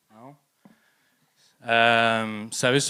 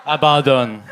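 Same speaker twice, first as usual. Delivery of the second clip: loud; 10 dB louder than usual. Acted. Punchline shouted.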